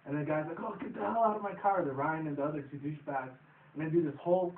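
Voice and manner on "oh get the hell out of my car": higher-pitched imitation of an annoyed order; mock indignation. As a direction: act out throwing someone out. Voicing man ordering them out.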